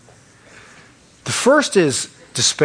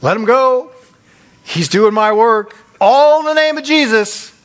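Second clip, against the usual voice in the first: gleeful devil; 4 semitones higher, 3 dB louder than usual. Retold or imitated. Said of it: "He's like".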